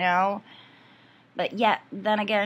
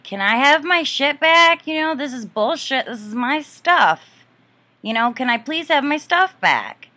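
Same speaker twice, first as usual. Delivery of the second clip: loud, higher, furious yelling at the door; much louder and higher, demanding her things back; angry demand; 7 semitones higher, 7 dB louder than usual. Retold or imitated. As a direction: shout it through the door, fed up. Banging on door, demanding stuff.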